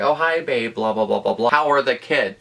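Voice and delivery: lightly sends up the cheating guy's charm; mock sweet husband. Mimicking him sweetly greeting his wife on the phone. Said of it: "He's like".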